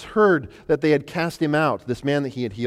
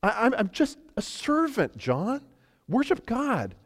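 angel's voice; 10 semitones higher, slower than usual. Acted. Angel speaking to John in Revelation.

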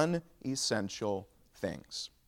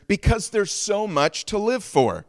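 high-pitched, pleading insistence; earnest plea; 6 semitones higher, 3 dB louder than usual. Acted. First man answers the jumper, high earnest plea. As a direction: plead with someone to reconsider.

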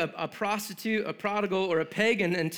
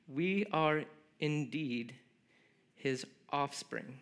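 scripture reading; 3 semitones lower than usual. Acted. Preacher reads Paul's speech to the Athenians, measured scripture reading. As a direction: read the verses aloud with reverent pauses.

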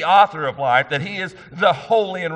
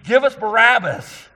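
a raised mob cry, pitched up; loud, higher crowd demand; crowd shouting; 8 semitones higher, 5 dB louder than usual. Retold or imitated. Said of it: "the crowd shouts and screams".

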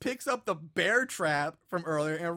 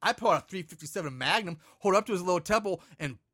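put-on tough kid bravado. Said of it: "acting like he's the toughest kid".

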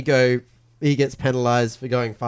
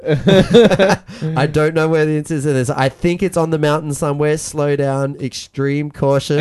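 laughing while quoting; 3 semitones higher, 6 dB louder than usual. Retold or imitated. Laughing mock radio quote.

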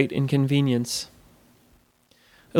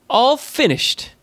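higher, slow goblin voice; lightly voiced amiable goblin; 9 semitones higher, slower than usual. Goblin reporting the repairs are done, amiable. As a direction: draw it out high like a pleased goblin.

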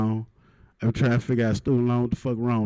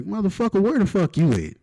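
mock threat; 7 semitones higher than usual. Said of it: "And I was like".

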